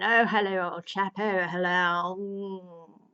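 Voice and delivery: put-on loud, jolly "old chap" greeting; hearty greeting. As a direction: greet an old pal with a hammed-up cheer. Doctor greeting the Master.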